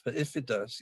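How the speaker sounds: IF picked out as the key word; stress on IF. Retold or imitated. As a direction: repeat it with the weight on "if". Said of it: "not the word if".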